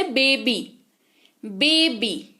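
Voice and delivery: "बेबी" with a clear long ee ending; final ee sound. Shown as a demonstration. Teacher giving an example to learners, "बेबी" ending on clear ee. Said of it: "ई के जैसा उच्चारण होता है".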